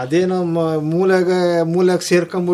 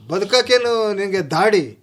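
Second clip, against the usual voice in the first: mock-stern, higher-pitched rebuke; retold scolding; 4 semitones higher than usual. Grandfather berating his brooding sons, retold scolding. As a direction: imitate a scolding elder, pitched up. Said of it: "ಅನ್ಕೊಂಡ್ ಬೈತಿದ್ನಂತೆ".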